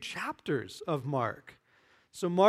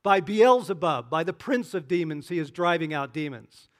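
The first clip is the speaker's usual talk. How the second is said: accusing; 6 dB louder than usual. Acted. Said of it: "to Jerusalem and said".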